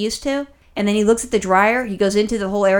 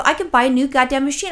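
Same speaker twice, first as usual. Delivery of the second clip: shocked; 4 semitones higher than usual. Retold or imitated. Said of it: "I was, like, shocked".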